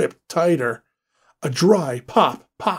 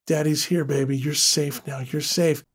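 soothing; 4 dB quieter than usual. Acted. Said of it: "as he whispered her back to sleep".

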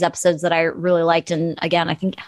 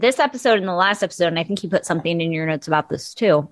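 talking around a piece of ice; words round an ice cube in the mouth. Real, not acted. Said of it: "I have a piece of ice in my mouth".

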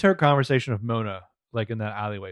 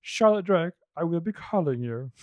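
smoother suave take; 3 semitones higher than usual. Retold or imitated. Retrying Archer's line to sound more seductive. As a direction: purr it like a movie charmer. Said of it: "Let me try this one more time".

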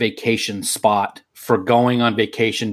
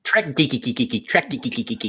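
chirpy repeated bird call; imitating bird call. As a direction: mimic the bird calling. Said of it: "Yeah, exactly".

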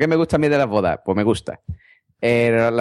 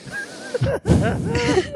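heavy breathing. Shown as a demonstration. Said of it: "Respirando fuerte".

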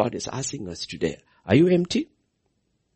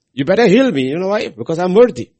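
loud mock demand of God, pitched up; hammed-up entitled prayer; 7 semitones higher, 10 dB louder than usual. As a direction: bark it like a spoiled claimant.

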